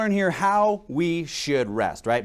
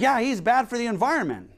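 higher-pitched imitation of an upset lady; freaking out; 5 semitones higher than usual. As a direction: mimic someone mildly worked up. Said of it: "This lady is just freaking out".

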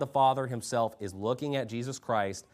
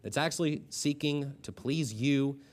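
subdued pastor's prayer after preaching; closing prayer; 2 semitones lower, 3 dB quieter than usual. Real, not acted. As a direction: lead the congregation in prayer, evenly.

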